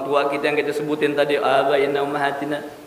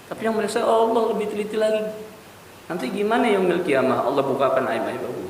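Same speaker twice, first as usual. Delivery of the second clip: put-on anguished old tailor; 5 semitones higher than usual. The old tailor tells the shop owner why he weeps, anguished. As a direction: cry out the regret, then let it fade. Weeping tailor explains his grief.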